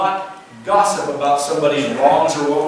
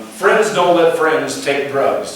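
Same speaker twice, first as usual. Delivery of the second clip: slow slogan; much slower than usual. Shown as a demonstration. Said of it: "the old slogan".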